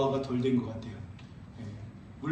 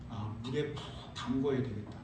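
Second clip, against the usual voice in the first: wry inner thought; 6 semitones lower, 9 dB quieter than usual. Retold or imitated. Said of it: "저의 생각은".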